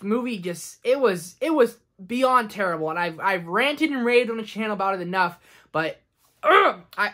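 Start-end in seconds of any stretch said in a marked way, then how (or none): 6.4-6.8 loud, exasperated ugh; a short burst of frustration; frustrated groan. Real, not acted. Reviewer stopping before getting angry about Dumbo, frustrated groan. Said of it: "I'm just gonna get angry".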